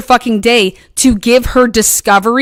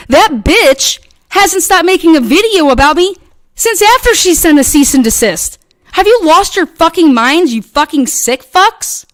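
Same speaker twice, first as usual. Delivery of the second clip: raised pitch, heated and accusing; furious rant; 4 semitones higher than usual. Real, not acted. Ranting at the people harassing her, furious. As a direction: let the anger spill out at them.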